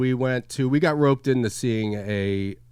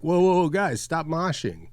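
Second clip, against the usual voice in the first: higher-pitched mimic of a man halting people; street recruiter; 6 semitones higher than usual. Recruiter stops punk rockers in the street, raised mimicry. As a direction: flag them down in a raised voice. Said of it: "this guy was like".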